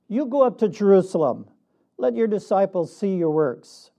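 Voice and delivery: lightly mocking, a little lifted and brisk; mildly sarcastic. James to his brother Jesus, in disbelief, mildly sarcastic. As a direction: quote it with a touch of sarcasm. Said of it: "I can hear a sarcastic tone in his voice".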